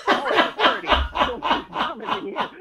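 high, slow, laughing retake of the line; mock girl's warning. Teller redoes the store girl's warning, high and laughing. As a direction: drag it out high while cracking up. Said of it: "there's a girl there going".

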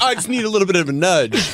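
lightly voiced reluctant singer; coy karaoke singer. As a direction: act shy but fishing for encouragement. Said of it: "and they're like".

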